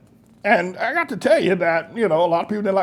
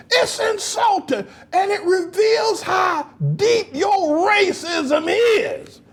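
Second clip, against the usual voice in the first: indignant shout; 12 semitones higher, much slower than usual. Real, not acted. Pastor shouting at viewers that the praise is racist. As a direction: call it out hard to the crowd. Angry preaching at audience.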